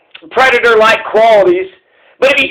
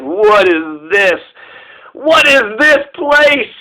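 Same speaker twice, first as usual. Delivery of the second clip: slow, wide-eyed wonder, rising on the second; puppy's wonder; much slower than usual. Pretend. Puppy in the grocery store wondering, slow and awed.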